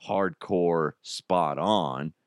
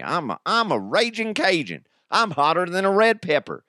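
high, goofy Cajun voice; silly pitched-up Cajun; Brandon Stokley; 9 semitones higher than usual. Acted. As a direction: boast in a hammed-up high Cajun accent. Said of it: "he sounds nothing like that".

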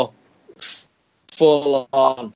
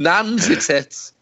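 higher pitch on "Nan's" to correct; stress on Nan's; 5 semitones higher than usual. Real, not acted. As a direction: punch "Nan's" as the corrected word.

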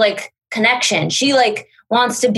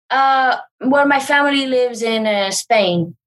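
Hilaria impression; 3 semitones higher than usual. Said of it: "And she'll be like".

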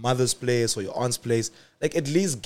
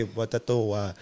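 put-on French accent; 2 semitones lower, 4 dB quieter than usual. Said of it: "the one I can do is a French one".

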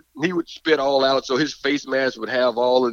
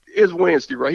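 imitating Prime; 11 semitones higher than usual. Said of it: "he was like".

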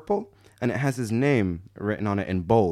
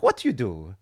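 put-on comic Italian-accented English; comically Italian. Italian driver getting acquainted, comic Italian accent. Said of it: "the comically stereotypical accent".

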